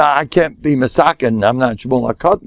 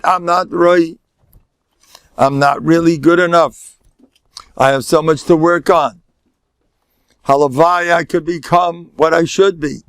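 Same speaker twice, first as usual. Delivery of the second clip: high, held sing-song self-reproach; humble confession; 4 semitones higher than usual. Acted. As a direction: chant it earnestly on a raised, level pitch. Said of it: "people who spoke like that, that was humility".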